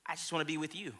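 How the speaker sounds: soft, quiet and sincere; a wife's soft reply; tender wife's answer. Retold or imitated. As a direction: say it gently like a loving wife. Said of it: "she says".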